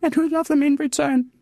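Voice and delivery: real emotion while reciting a cherished quote; emotional. Real, not acted. Mother reciting a quote on longing for children, emotional. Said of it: "I still get emotional".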